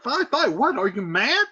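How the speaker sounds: high appalled cry; shocked mother. Retold or imitated. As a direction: gasp at the husband. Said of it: "Lady Capulet's, of course".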